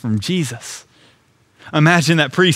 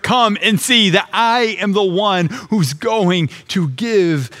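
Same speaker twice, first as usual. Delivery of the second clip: higher-pitched, mildly raised preaching voice; imitating a public proclamation, pitched up; retold loud voice; 4 semitones higher than usual. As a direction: lift the pitch as if calling to a crowd, without shouting. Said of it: "Jesus says in a loud voice".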